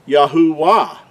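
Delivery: Yahuwah ending in a sounded, stressed WAH; mispronounced with W. Shown as a demonstration. Teacher warning of a misleading spelling, Yahuwah said with a hard WAH. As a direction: say Yahuwah as Yah-hoo-WAH. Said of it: "and it's not".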